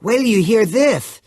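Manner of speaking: high, loud, slow eager plea; bursting to share news; excited Vern. A narrator's reading.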